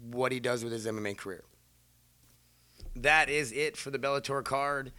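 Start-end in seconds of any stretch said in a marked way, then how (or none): 2.9-4.9 booming ring announcer read. Real, not acted. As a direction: announce it like a fight card host. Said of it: "I just say that like an announcer voice again".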